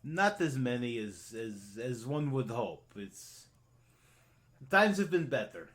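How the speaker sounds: halting, reluctant admission; a little embarrassed. Acted. Toymaker confessing that business is poor, mildly embarrassed. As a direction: admit it haltingly, in character. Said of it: "He looks a little more embarrassed".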